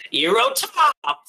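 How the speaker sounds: high, loud, drawn-out battle yell; shouted attack cry. Acted. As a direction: yell the attack name as you fire. Character shouts his attack.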